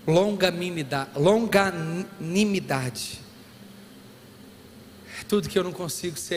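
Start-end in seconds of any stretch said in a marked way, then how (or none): 0.1-3.2 "longanimidade" stretched slowly syllable by syllable; "longanimidade" said very slowly, every syllable; drawn-out word. Shown as a demonstration. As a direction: spell out "longanimidade" slowly for the church. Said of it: "drawn out word".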